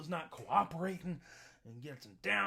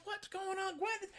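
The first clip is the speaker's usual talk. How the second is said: sheriff calling; 13 semitones higher, 4 dB quieter than usual. Retold or imitated. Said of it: "comes out from the house".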